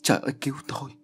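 contained narrated shriek; screaming for help. A narrator's reading. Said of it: "Bà thét lên".

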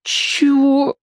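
put-on high, slow timid boy's yes; scared captive mumbling consent; cowed boy. A narrator's reading. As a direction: agree meekly. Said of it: "заморгал несчастный".

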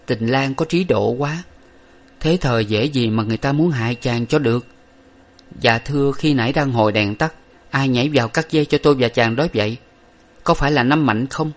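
admiring, then curious questions; playful girl teasing her lover; young woman's voice. Acted.

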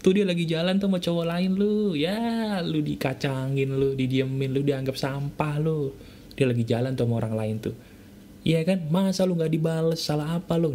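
a hint of a taunting devil on your shoulder, pitch jumping up and down; lightly voiced nagging devil, goading; devil's whisper. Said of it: "Pikiran setan akan ngomong apa?". (sedikit suara setan yang menghasut)

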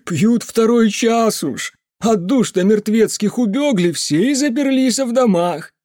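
put-on high, loud superstitious drunken rant; the drunk uncle warning the mage about creatures; ranting drunk peasant. A narrator's reading. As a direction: grumble darkly about the volcanoes. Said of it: "он захохотал".

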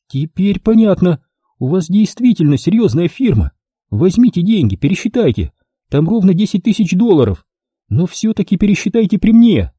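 a lightly voiced scheming woman; voiced female client. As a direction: play a calculating client doubting the deal. Client hands over money.

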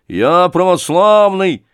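loud, high, slow "православный"; proud declaration. Acted. Thug proudly declares his faith.

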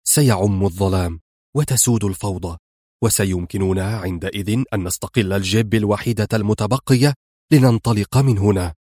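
calm and deliberate; low plan. Acted. Rescuer explains his plan, lightly low and steady.

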